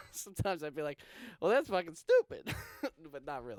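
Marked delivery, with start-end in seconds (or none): 1.4-2.5 a touch of a louder, snide retort; rude. Retold or imitated. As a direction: toss it off rudely at the teacher. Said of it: "sometimes in class I would be rude".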